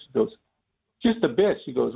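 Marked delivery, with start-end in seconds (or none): 1.0-1.6 dry cop reply. Retold or imitated. Aunt's dry answer to the driver.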